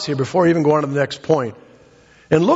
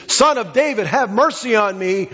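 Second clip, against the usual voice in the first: raised-pitch plea, mildly called out; imitated crying out; 4 semitones higher than usual. Blind beggar calling to Jesus on the road, imitated plea. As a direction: call out for mercy without full force. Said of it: "began to cry out to Jesus".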